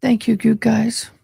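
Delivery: said out loud, clearly; full-voiced thank you. Real, not acted.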